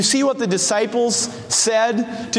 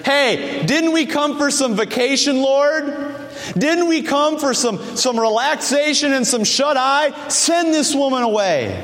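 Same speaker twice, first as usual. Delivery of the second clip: higher, whining protest about the lost vacation; mock grumbling disciples, pitched up; whiny complaining disciples; 5 semitones higher than usual. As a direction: sound put-upon and petulant. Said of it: "They see a woman in desperate need and they're".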